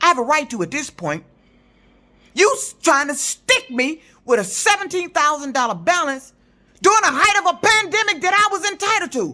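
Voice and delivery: screaming and yelling angrily. Complaining about owing pandemic money to the unemployment agency, screaming and yelling. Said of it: "I don't give a damn if I sound like I'm screaming and yelling".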